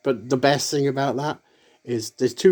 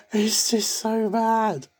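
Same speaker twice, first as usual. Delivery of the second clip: slow breathy whisper of disbelief; 11 semitones higher, much slower than usual. Real, not acted. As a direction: whisper it slowly, higher, half laughing. Amused disbelief at bad clips.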